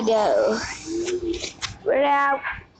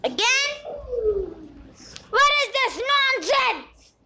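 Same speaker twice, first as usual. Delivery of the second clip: exasperated; 8 semitones higher than usual. Real, not acted. Kid annoyed at game upgrade.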